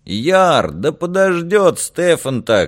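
protesting shout at a departing friend; calling after. A narrator's reading. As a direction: call out to someone walking away. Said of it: "кричали вслед".

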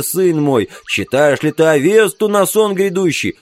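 high-pitched pleading wail; wounded man wailing to save himself; desperate wailing. Acted. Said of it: "стонал лейтенант, тоже признавший Билла". (высокий умоляющий вой)

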